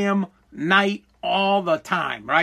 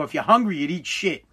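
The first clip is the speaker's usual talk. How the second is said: deadpan dad; 2 semitones lower than usual. Retold or imitated. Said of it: "like deadpan, no emotion".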